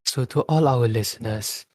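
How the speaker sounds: good-hearted announcement to listeners; kindly, considerate public notice; polite, kindly tone. Shown as a demonstration. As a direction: reassure the listeners politely, no pressure. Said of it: "this is how you do it".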